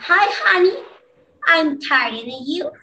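"Hi, honey, I'm tired, and you" in separated, careful phrases; model pronunciation. Shown as a demonstration. Teacher reading the second line for students, model pronunciation. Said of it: "la pronunciación que yo haga".

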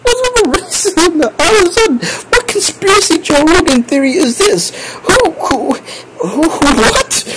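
high, incredulous, on the edge of laughter; laughing hard. Real, not acted. Streamer baffled by chat's conspiracy theory, laughing hard. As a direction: squeal the questions out through a laughing fit. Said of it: "'cause I'm laughing so hard".

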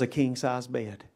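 chuckling through the last words; laughing punchline. Real, not acted. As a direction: laugh as you land the joke. Punchline of Og joke.

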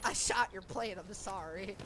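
light redneck twang apology; redneck accent. Pretend. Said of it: "say that in a redneck accent".

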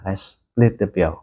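slow "Let's split the bill"; slow model phrase. Shown as a demonstration. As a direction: suggest splitting, slowly. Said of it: "hoặc là". (chậm rãi nói "Let's split the bill")

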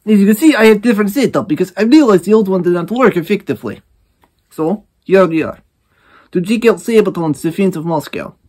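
mock Russian accent greeting comrades. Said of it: "In case you don't like the Russian accent, I will stop doing it".

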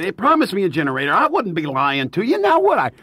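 fast, rough go at Irish, rising high at the end; attempted Irish accent. Irish promoter insisting about the missing generator, mock Irish protest. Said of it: "in an Irish accent. I don't do an Irish".

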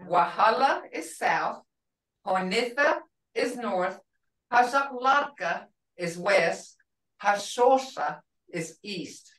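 a teacher repeating the direction words; Wahala, Honitha, Hazaklatka, Hasosa said slowly for the learner; teaching the words. Shown as a demonstration. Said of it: "So you're learning directions here now".

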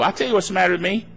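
quick, matter-of-fact comeback; unfazed retort. Acted. Believer answering upset critics, quick unfazed retort. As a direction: answer briskly without getting worked up.

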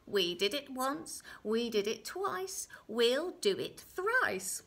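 deliberate, loud little-man voice; little man's bargain. Acted. Little man bargains with the girl, slow and emphatic. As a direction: punch each count, drawn out at the end.

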